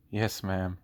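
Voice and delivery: mildly defeated, imitated teacher. Teacher answering the student's mom on the phone, mildly defeated. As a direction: give in with a touch of mock defeat. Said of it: "like, the most defeated voice".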